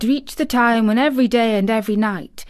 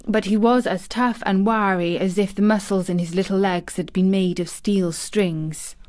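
plain reading voice

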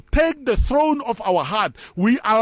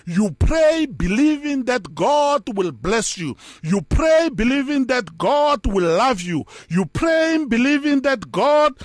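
building preaching. Acted. Preacher urging the congregation to pray believing, building and emphatic. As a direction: hammer each "God will" line home, climbing.

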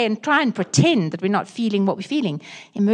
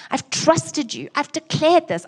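angry complaint to God; 2 semitones higher than usual. Retold or imitated.

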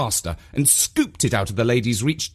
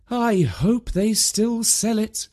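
mum to herself; 10 semitones higher, slower than usual. A narrator's reading. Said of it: "she said to herself".

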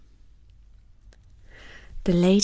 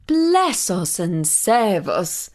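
astonished mother; slower than usual. Acted. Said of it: "exclaimed the mother".

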